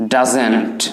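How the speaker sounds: "doesn't" in short form, not as two words; contracted doesn't. Shown as a demonstration. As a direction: model the contraction "doesn't" on its own. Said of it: "সংক্ষেপে বলার চেষ্টা করব".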